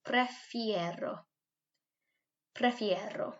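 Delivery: prefiero said slowly, pre-FIE-ro; slow it down for pupils to repeat; model word. Shown as a demonstration. Teacher drills a new word for the class. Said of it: "So let's try this".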